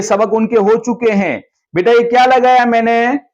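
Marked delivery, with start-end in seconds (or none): 1.7-3.2 bright questioning teacher voice; teacher asking children. Shown as a demonstration. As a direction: quiz the little ones kindly. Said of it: "बच्चों से सवाल कर".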